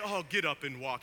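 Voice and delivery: lightly parodied mild suggestion; mock-gentle Jesus. Preacher showing what Jesus doesn't say, mock-gentle. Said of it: "he doesn't say".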